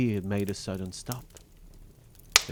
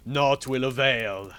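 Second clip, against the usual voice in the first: slow, higher pronouncement; bawling; 4 semitones higher, 4 dB louder, slower than usual. A narrator's reading. Bluebeard refusing his weeping wife, slow stern declaration. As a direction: deliver it slowly and implacably. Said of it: "Bluebeard bawled out so loud".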